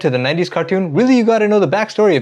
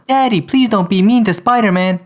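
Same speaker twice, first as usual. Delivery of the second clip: lightly voiced child, begging; pleading kid; 4 semitones higher than usual. Connors' kid lightly voiced, pleading with dad. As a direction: beg your dad to stop.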